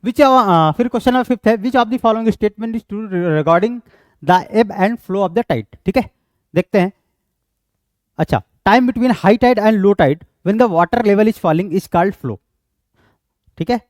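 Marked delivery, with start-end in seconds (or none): 1.6-5.8 slow question read-out. Acted. Reads quiz question aloud. 8.7-12.4 slow option read-out. Acted. Reads quiz option aloud.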